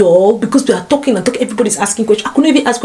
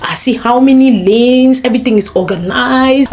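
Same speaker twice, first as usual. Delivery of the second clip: amazed exclamation; 3 dB louder, slower than usual. Retold or imitated. Retold amazement at the roads.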